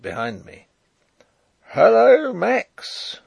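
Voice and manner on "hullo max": high, loud call across distance; raised, carrying shout; shouted hail. A narrator's reading. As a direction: holler it out as a hail. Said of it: "I heard shouted".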